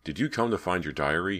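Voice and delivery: mildly insistent questioning; demanding. Acted. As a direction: demand an answer from someone unseen. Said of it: "he demanded".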